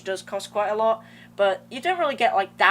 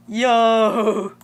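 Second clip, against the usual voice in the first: excited shout; 2 semitones higher, 9 dB louder than usual. Real, not acted. Excited at the background option.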